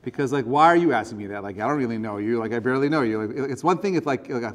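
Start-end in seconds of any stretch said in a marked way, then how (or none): 0.4-3.2 louder, put-upon mock protest; irritated reply. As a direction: push back like an annoyed acquaintance.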